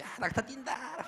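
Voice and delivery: high, drawn-out gleeful call; acted thrill, stretched out; excited cry. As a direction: cheer the ride in slow, high-pitched delight. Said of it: "그때까지 신났어".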